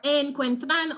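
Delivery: "encuentran" wrongly stressed on the first syllable, en; misplaced stress. Shown as a demonstration. Teacher showing students another mistake, "encuentran" stressed on en. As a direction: push the stress onto EN in "encuentran". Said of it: "say something like".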